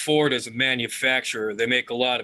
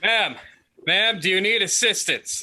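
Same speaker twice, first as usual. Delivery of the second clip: lightly acted offer of help, pitched up; concerned rescuer; 5 semitones higher than usual. Alvin rushing over to the screaming car hop, lightly acted concern. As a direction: call out to her with a touch of urgency. Player calls to distressed woman.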